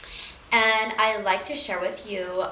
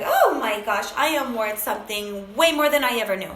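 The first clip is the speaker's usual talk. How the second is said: louder burst of amazed realisation; exhilarated; 4 dB louder than usual. Retold or imitated. Woman realises her own worth, retold with exhilaration. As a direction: retell a thrilling realisation with force. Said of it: "like, exhilarating".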